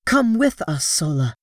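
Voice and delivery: eager plea. Acted. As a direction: call out to Sola eagerly. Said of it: "cried Dejathoros".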